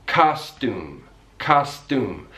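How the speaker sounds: "costume" said kahs-toom, the y dropped; American "costume" with a plain t before oo; yod dropping. Shown as a demonstration. Teacher demonstrating yod dropping in American English, American pronunciation. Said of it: "it disappears".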